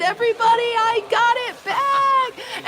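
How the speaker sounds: high, slow, drawn-out call of victory; proudly calling out to the whole barn; triumphant announcement. Retold or imitated. To everyone in the barn, a triumphant high announcement.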